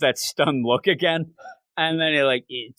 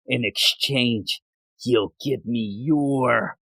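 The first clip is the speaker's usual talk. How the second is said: slow creepy tease; 4 semitones lower, much slower than usual. Retold or imitated. Spirit sets creepy price.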